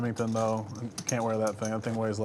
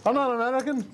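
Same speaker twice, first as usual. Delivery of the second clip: put-on Australian accent; 11 semitones higher than usual. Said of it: "speaking with an Australian accent".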